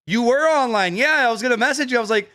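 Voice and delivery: talking while chewing gum; words around a wad of gum. Real, not acted. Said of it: "Sorry, I have gum".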